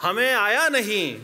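measured mushaira recital with drawn-out phrase endings; poetry recitation. Acted. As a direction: recite the couplet line by line to an audience. Recites couplets with pauses.

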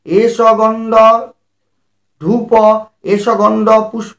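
measured, chanted Sanskrit offering formula; lightly chanted puja mantra; mantra recitation. Acted. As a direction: intone each offering like a priest.

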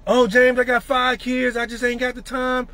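whiny excuse. Retold or imitated. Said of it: "See the difference?".

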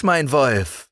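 put-on high, bright child voice; cheerful young girl talking, pitched well up; little girl Liesel. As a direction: speak up like a fearless little girl. Calling the dog.

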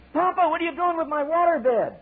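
high, whining little eaglet voice; squeaky baby bird complaining; whiny child eaglet. Acted. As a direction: plead like a small child.

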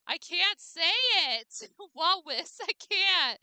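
laughing, loud, high I can't; laughing frustration. Real, not acted. Streamer failing the tongue twister, laughing loud. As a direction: give up laughing on the name. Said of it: "It's a tongue twister for Sleepy".

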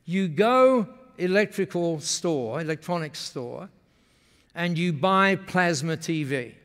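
slow, lightly imitated Japanese-English; Masami's Japanese-accented English. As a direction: explain deliberately in a Japanese speaker's broken English. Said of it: "when they speak like that".

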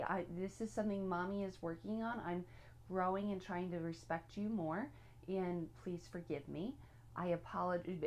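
understated, sincere apology; modeled gentle apology. Acted. Models a parent apologizing to child.

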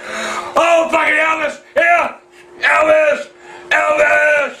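shouted outburst; worked-up yelling. Real, not acted. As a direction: holler the name out, drawn out. Yelling about a singer.

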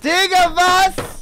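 high, loud disbelieving what; shocked outburst at the play; surprised. Real, not acted. Teammate reacts with disbelief.

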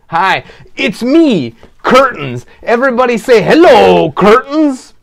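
put-on high, loud, bouncy kids' puppet; excited puppet calling out to the audience; cheerful puppet voice. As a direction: pop up and greet the children as an eager puppet. Puppet Curtains greets the kids.

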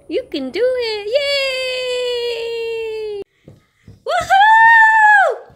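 high cheer rising to a loud woohoo. Real, not acted. Mom cheering her baby on, building to a loud whoop. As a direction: whoop for the little one.

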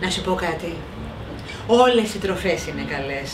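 very serious. Acted. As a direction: lecture him gravely. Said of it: "πήρε ύφος περισπούδαστο και είπε πολύ σοβαρά".

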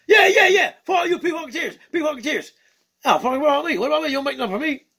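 excitable puppet bird greeting the fans; Skeeter the bird puppet. Acted. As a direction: play a cheeky funk-loving bird puppet.

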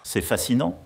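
C'est fascinant with a slushy lisp. Shown as a demonstration. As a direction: repeat fascinant lisping on the s. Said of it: "Redis-le pour voir".

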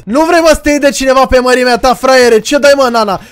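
loud cocky taunt, building to a shout. Real, not acted. Gamer taunting the robot villain, loud cocky challenge. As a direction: bait him to fight you.

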